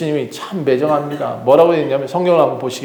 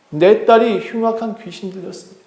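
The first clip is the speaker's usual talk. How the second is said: higher-pitched, pleading for a daughter; desperate plea; 5 semitones higher than usual. Acted. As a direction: plead as an anguished mother. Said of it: "소리쳤습니다". (애타게 하소연하는 어머니)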